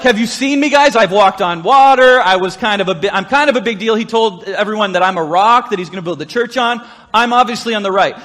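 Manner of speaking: loud bragging, walked-on-water swagger; boastful Peter. Retold or imitated. Pastor voicing Peter boasting to the other disciples, loud. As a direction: puff up and show off. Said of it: "Peter's like".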